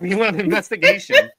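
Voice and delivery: high, loud words through a laugh. Real, not acted. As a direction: break up while carrying on the story. Laughs while resuming his story.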